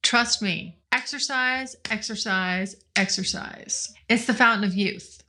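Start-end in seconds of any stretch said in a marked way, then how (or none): 0.9-3.9 each exercise softer until a whisper; fading repetition. Acted. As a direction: let it fade out to a breath.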